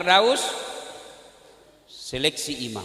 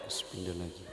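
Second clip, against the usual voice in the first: much softer, low, with a laugh; quieter mock shuffling, laughing; 14 dB quieter, faster than usual. Preacher miming the neighbour who keeps moving his feet, softer and laughing. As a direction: let it fade into a chuckle.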